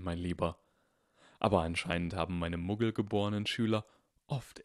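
put-on old wizard, hushed and grave; voiced old Dumbledore. Dumbledore warning Harry, hushed old wizard voice. Dumbledore explains his Tolkien books.

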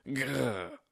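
badly faked growl. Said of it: "schlechteste Schauspielleistung".

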